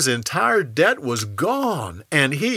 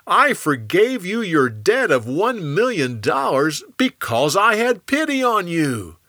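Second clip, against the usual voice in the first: louder, higher royal rebuke; raised voice ending in a loud call to the guard; indignant rebuke; 5 semitones higher, 3 dB louder than usual. Acted. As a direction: scold him, then call the guard. King rebukes ungrateful man.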